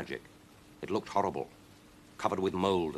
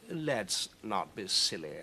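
slow, softer cat; calm cat Victor; 3 dB quieter, slower than usual. Acted. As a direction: settle her down coolly. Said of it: "said Victor".

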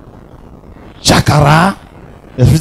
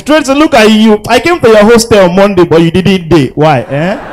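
put-on high squealing girly voice; mock the fawning friend; gushing girl; 5 semitones higher than usual. Comedian mimicking a girl greeting Tracy, squealing high.

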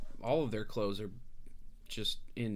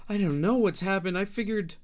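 frightened refugee mother; 3 semitones higher than usual. Acted. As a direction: babble it out, voice pitched up and shaky. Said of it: "and she says".

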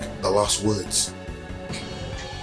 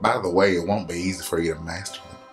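lower, lightly voiced old sage; very old man; 5 semitones lower than usual. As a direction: explain like a calm old mentor. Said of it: "you gave him the old man voice".

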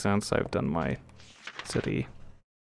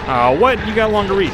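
surprised; 10 semitones higher, 6 dB louder than usual. Real, not acted. Surprise in the game.

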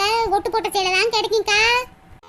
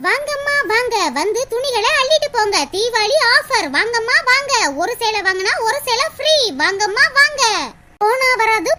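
singsong street hawker. Acted. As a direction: call out to customers like a hawker. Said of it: "announcement பண்ண வந்துட்டாங்களேடி".

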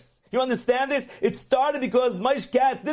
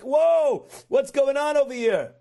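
high-pitched mock astonishment; startled exclamation; 5 semitones higher, slower than usual. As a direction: imitate stunned onlookers calling out. Startled halls react to the cursing.

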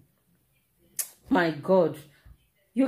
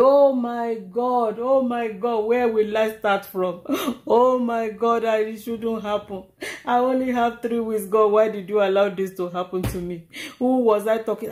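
mock wailing rant; 3 semitones higher than usual.

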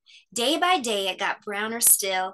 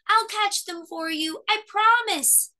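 eager promise; 10 semitones higher, 3 dB louder than usual. A narrator's reading. Cub chasing leaves, alarmed.

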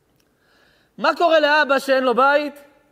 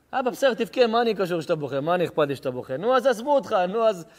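dismissive son; 2 semitones lower than usual. Acted. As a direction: brush off the father's tears. Callous son mocks crying father.

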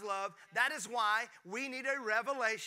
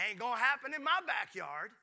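defiant mom; 2 semitones higher than usual. Retold or imitated. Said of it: "Her love for her boy said".

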